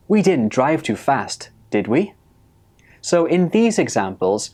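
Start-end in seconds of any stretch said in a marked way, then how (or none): 0.1-2.1 unsure check, "did we" rising; rising tag question. Shown as a demonstration. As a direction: lift the voice on "did we". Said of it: "so I used a rising intonation".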